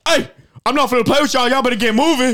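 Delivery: put-on loud, high yell at misbehaving kids. Arcade attendant yelling at kids in mini golf, loud high yell. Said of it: "I could just yell at kids".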